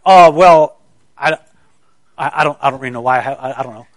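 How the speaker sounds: mock sheepish fumbling, tumbling out quickly at the end; imitated embarrassment. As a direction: act out someone caught off guard, stumbling over the words. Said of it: "I think I embarrassed him".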